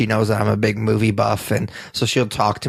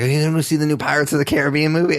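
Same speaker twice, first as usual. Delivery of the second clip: excited; 5 semitones higher, faster than usual. Retold or imitated. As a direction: bubble over with eager excitement. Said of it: "she came in all excited".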